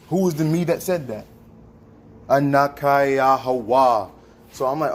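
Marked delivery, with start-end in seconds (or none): 2.3-4.1 loud slow proclamation. Real, not acted. Proclaiming the divine name.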